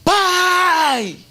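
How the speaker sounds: long, high-pitched yell for a parent; child's shout. Retold or imitated. Child greeting a parent arriving home, high joyful shout. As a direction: cry out high and drawn out, like an excited child. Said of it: "ele dá aquele grito".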